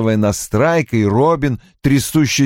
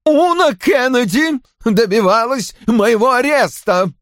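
high-pitched indignant cry; angry accusation; 13 semitones higher than usual. A narrator's reading. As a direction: insist you were persecuted. Roy shouts his accusation. (гневно, обвиняя)

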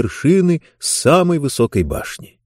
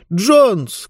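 high-pitched, contained cry; calling out; 10 semitones higher than usual. A narrator's reading. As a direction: call the name in mild alarm, without full volume. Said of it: "крикнула она".

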